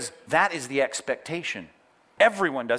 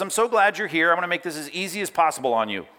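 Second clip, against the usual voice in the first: mock welcoming; 3 semitones higher, faster than usual. Ironic false quote of Jesus.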